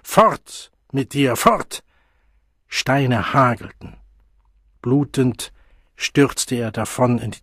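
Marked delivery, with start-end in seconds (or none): 0.0-1.8 wütend. Acted. Stones thrown, men shouting.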